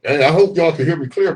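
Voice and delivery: talking through a mask; muffled behind mask. Real, not acted. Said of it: "Rochelle says she can't hear me too clear with this mask on".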